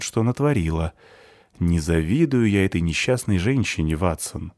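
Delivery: слегка наигранная речь сыщика; рассуждать как сыщик, объясняющий помощнику; Шерлок Холмс. Acted. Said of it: "Вот так сказал бы Шерлок Холмс". (лёгкая пародия на дедукцию великого сыщика)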